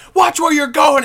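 mock very high, loud, jeering, taunting scream. Retelling a guy taunting passing cars: imitating someone screaming at cars. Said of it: "He would just be screaming at these people".

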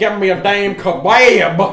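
put-on cartoon rooster voice. Joking about kebabs with a friend: Foghorn Leghorn voice. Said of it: "I'm Foghorn Leghorn".

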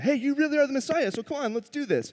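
mock, very high, jeering sarcastic taunting. Retelling a criminal's words to Jesus on the cross: imitating a mocking criminal. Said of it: "He's mocking Jesus".

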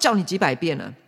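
ordinary talk

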